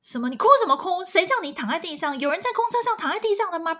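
imitating a mother yelling at her crying child; loud, high-pitched rapid telling-off; angry scolding. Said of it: "他妈在骂他说".

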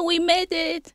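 joyful we made it; happy cheer. Retold or imitated. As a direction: celebrate reaching the top. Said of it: "很开心地说".

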